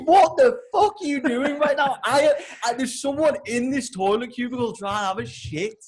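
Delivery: high, exasperated yell; outraged protest, yelled through a door; screaming. Retold or imitated. Man on the toilet to intruder, screaming protest. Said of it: "and I'm screaming".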